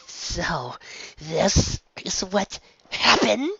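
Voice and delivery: high, slow disbelieving question; a shocked friend staring wide-eyed; stunned high question. Acted. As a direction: ask slowly, stunned. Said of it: "she asked".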